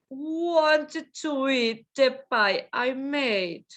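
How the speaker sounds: "Wanted to eat the pie I made" drawn out; slow model. Shown as a demonstration. Teacher slowly models the sentence for the class. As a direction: say it slowly for learners.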